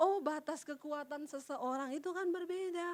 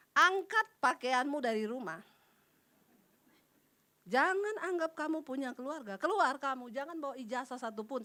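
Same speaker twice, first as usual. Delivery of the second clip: angry father; 2 semitones lower, 5 dB louder than usual. Retold or imitated. Father throwing her out.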